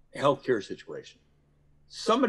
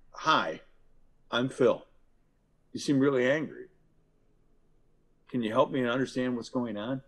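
calm de-escalating. Shown as a demonstration. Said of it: "techniques work more like this".

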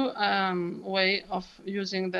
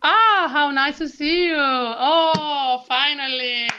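put-on baby glottal; 5 semitones higher, 5 dB louder, slower than usual. Shown as a demonstration. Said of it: "What did I do?".

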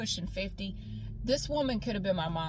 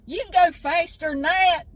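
a hint of her dad, louder and higher, urging her on; dad coaxing; 9 semitones higher, 11 dB louder than usual. Dad at the track telling his daughter to go faster, coaxing. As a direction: coax the scared kid along like a patient dad. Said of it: "He goes".

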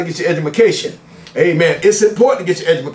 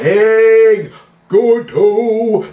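calling out a greeting; 3 semitones higher, 3 dB louder, much slower than usual. Real, not acted. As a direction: holler a long, playful hello. Calling out to grandchild.

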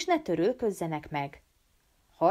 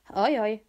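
sighing; 4 semitones higher than usual. Acted. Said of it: "sóhajtott a diák".

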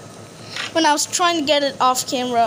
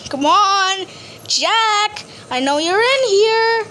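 coaxing call; 3 semitones higher, slower than usual. Real, not acted. Calling for Jack in game.

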